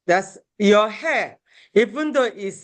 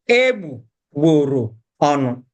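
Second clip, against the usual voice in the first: "Egbugboro ọnụ" in separate, deliberate chunks, lower; slowed down; 4 semitones lower, 3 dB louder than usual. Shown as a demonstration. Teacher slowing down for learners, "Egbugboro ọnụ" piece by piece. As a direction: break "Egbugboro ọnụ" into egbu, gboro, ọnụ. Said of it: "slow down when you're pronouncing it".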